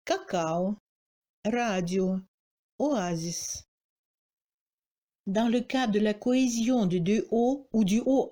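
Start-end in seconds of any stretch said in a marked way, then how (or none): 0.0-3.6 Cacao, radio in Russian with a full final O; unreduced O. Shown as a demonstration. Teacher shows borrowed Russian words, O kept. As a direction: oasis opening on a full, unreduced O. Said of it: "ne se réduit pas et se prononce comme O".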